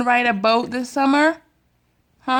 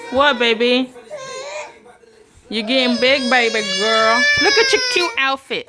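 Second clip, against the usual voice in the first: mock crying; 12 semitones higher, 3 dB louder than usual. Real, not acted. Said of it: "Why is my big girl crying?".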